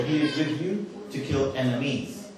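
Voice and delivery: slow, with "enemies" clearly sounded; corrected English. Shown as a demonstration. Speaker offering correct English to audience, slow clear "enemies". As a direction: spell out the plural "enemies" slowly as a correction. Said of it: "This is the correct English".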